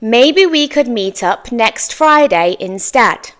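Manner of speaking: slow, measured model sentence; slow down so learners can follow. Shown as a demonstration. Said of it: "I'm going to say it more slowly now".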